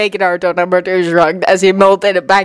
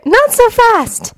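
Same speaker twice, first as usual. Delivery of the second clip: high, drawn-out interruption; slow high-pitched challenge; cutting in; much slower than usual. A narrator's reading. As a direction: cut in firmly with a high girl voice. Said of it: "Sakura cut in".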